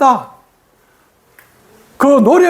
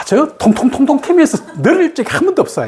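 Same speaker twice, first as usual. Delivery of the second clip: raised, lively exclaiming outburst; emphatic protest; 4 semitones higher than usual. Real, not acted. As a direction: burst out in disbelief at the idea. Teacher protests about Shanti.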